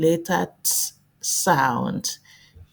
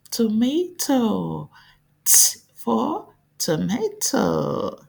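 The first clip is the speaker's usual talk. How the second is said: slow clear modelling; 4 semitones higher than usual. Shown as a demonstration. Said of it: "teacher modelling".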